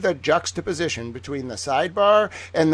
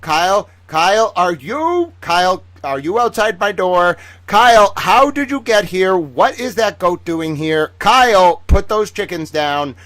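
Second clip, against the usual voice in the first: mock alarm; 2 semitones higher, 3 dB louder than usual. Real, not acted. Vlogger scolding her cat at the door, mock alarm. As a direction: playfully scold the cat for barging in.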